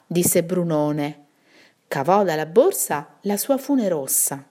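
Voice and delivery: measured, expressive storybook reading; story narration. A narrator's reading. Narrator telling children of Brunone and the brigands, storytelling. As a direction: read the tale aloud clearly for listeners.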